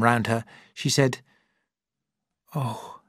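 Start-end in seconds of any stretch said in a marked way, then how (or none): 2.5-3.0 tender confession. Acted. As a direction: confess it gently, almost breathless.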